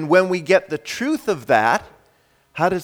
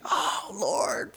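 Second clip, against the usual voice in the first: soft, higher, moved exclamation; hushed awe; 5 semitones higher, 10 dB quieter than usual. Acted. Preacher moved on hearing God's whisper, hushed awe. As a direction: sigh it upward in soft wonder.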